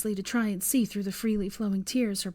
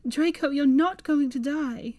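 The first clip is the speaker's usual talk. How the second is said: higher, louder protest; vehement; 7 semitones higher, 5 dB louder than usual. A narrator's reading. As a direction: protest fiercely. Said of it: "she protested vehemently".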